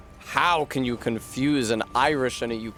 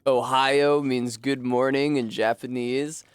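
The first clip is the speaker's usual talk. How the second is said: imitated Midwestern coworker; Midwest accent. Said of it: "He had a, a really strong Midwest accent".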